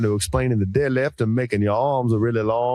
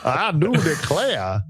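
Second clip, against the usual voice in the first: Southern belle; 5 semitones higher, slower than usual. Acted. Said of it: "An old Southern lawyer is gonna come".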